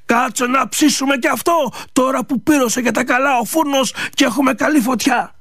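scheming mother-in-law. Acted.

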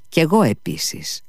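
put-on high, abrupt boyish outburst; sudden blurt. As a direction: blurt it out from the crowd. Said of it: "ξεφώνησε από το πλήθος". (απότομο ψηλό ξεφώνημα)

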